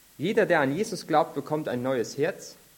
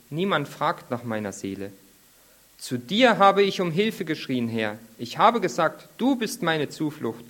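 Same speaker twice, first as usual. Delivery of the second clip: prayerful psalm reading; 3 dB louder than usual. Acted. Preacher reads David's cave psalm as the group's closing prayer, emphatic and measured. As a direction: read it out as a heartfelt, declaimed plea.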